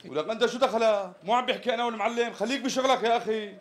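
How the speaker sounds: brisk, testy telling-off; irritated scolding. Acted. Customer tells the tailor's meddling assistant off, irritated. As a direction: put the meddler in his place.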